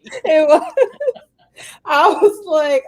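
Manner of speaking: laggy warped call audio; slow motion glitch. Real, not acted. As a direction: voice dragged by a bad connection. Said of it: "Why do y'all sound like that?".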